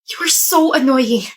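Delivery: usual speaking voice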